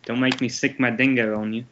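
put-on terrible Australian accent.

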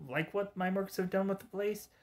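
lightly voiced cartoon villain; Joker voice. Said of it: "Mark Hamill's Joker".

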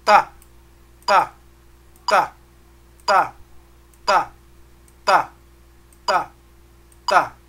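even tá on every beat, some hit hard; steady rhythm tá. Shown as a demonstration. Teacher keeping the beat for students with a steady tá. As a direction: keep the beat with a clipped tá each pulse. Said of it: "Vamos lá".

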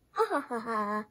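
read-out "ha ha" laugh; storybook laugh. A narrator's reading. Uncle teasing his niece about penguins, light acted laugh.

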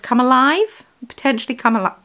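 talking through hiccups; hiccupy, catching breath. Real, not acted. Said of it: "I need to get rid of these hiccups".

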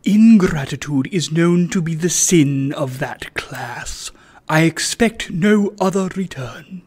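understated majestic pronouncement; lofty and condescending, unhurried; a hint of grand disdain; majestically. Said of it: "said Sir Joseph quite majestically".

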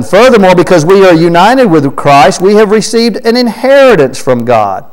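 key words lifted high, falling at the end; emphatic scripture reading. Real, not acted. Preacher reading the verse to the congregation, emphatic scripture reading.

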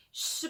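"슈" as a drawn-out sh; SH sound demonstrated. Shown as a demonstration. Teacher showing learners the sh ending, SH sound demonstrated. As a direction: model "슈" as the consonant sh, held. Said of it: "슈 발음".

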